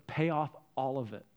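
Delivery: low, soft and measured; hushed divine prompting. Retold or imitated. Preacher voices God speaking to the couple's hearts, hushed. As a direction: drop to a quiet, weighty instruction.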